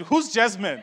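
baffled mock question, laughing; the baffled guest asking who Jasmine is; confused reply. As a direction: ask it puzzled. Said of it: "I said it exactly like this".

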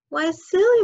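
surprised. Acted. Curious girl's question.

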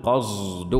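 قصد with a sound between ص and ز; mixed sad-zay sound. Shown as a demonstration. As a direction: say قصد, neither pure sad nor pure zay. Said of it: "وعلى الله قصد السبيل". (قصد بصاد مشمة زايًا)

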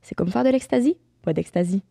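lightly sensual ad read; voix sensuelle. Pretend. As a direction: purr the ad copy teasingly. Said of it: "ma voix sensuelle". (pub lue d'une voix sensuelle)

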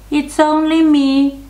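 very high, loud little goat squeak; tiny little voice. A narrator's reading. Youngest goat answers the troll, tiny high voice. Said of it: "in his tiny little voice".

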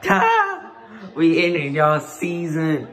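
rubbing the win in rivals' faces; cocky victory gloat. Real, not acted. Taunting the beaten rivals.

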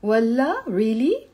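rising والله, really?; questioning. Shown as a demonstration. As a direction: ask والله as a real question, lifting the end. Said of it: "Look at the tone of my voice".

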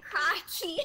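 crocky in a clumsy Australian accent. Shown as a demonstration. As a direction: say crocky like a bad Aussie. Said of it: "All I can do for Australian accent is crocky".

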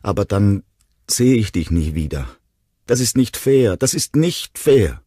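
put-on high, protesting little-boy wail; acted child on the verge of crying; tearful child. A narrator's reading. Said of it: "begann wieder zu weinen".

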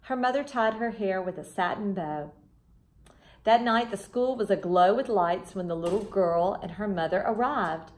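gentle storybook reading voice; children's storybook reader; story narration. A narrator's reading. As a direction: read it like a bedtime story to kids.

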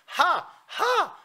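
"하" flipped up high and stretched slowly; high falsetto demo. Shown as a demonstration. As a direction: demonstrate the slow high "하". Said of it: "소리로 이으려고 하지 마라". (높은 가성 "하" 시범)

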